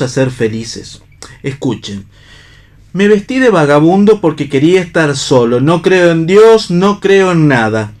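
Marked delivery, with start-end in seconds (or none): 2.9-7.9 rising to a loud, high defiant cry; impassioned outcry. Acted. Pablo crying out his unbelief to Ivona and Náyade, impassioned. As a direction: declare it with mounting fury.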